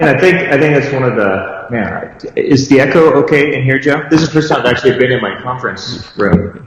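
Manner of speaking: echoey room voice; speaking in an echoing room; cave echo. Real, not acted. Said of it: "sounds like you're in a cave".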